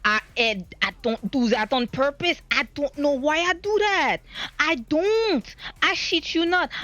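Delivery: African accent creeping in while exasperated; slipping African accent. Real, not acted. Confused speaker insisting it is not on purpose, African accent. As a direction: let an involuntary African accent take over. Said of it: "I have African accent again".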